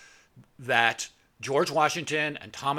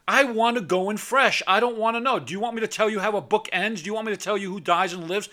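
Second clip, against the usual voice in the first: high, loud arguing; heated reply; 6 semitones higher, 3 dB louder than usual. Retold or imitated. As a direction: argue back at the friend. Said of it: "And I go".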